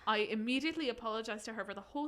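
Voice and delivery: put-on light Irish accent reading. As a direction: keep the Irish lilt going. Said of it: "do it in Irish".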